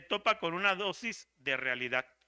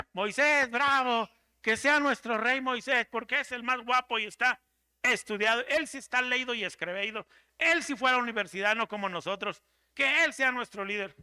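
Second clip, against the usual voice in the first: louder, higher, hailing a hero; hammed-up crowd acclaiming their new king; mock cheering crowd; 3 semitones higher, 3 dB louder than usual. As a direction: cheer him on like an adoring crowd. Hebrews imagined cheering for Moses.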